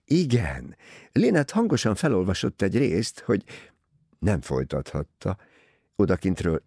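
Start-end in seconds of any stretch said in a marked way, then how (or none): none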